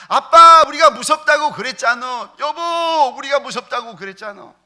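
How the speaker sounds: high, loud exasperated scolding; angry scolding. Retold or imitated. Wife and daughter yell at dad after the stop, high and loud. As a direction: yell at dad for ignoring the warning. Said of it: "소리 지르면서 막 성질 내는".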